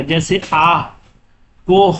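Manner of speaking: آہ with the final ہ breathed out clearly; audible final h. Shown as a demonstration. Teacher shows students the audible ہ in آہ. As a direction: sound the ہ at the end of کوہ. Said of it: "جس ہا کی آواز کو ظاہر کر کے پڑھا جائے".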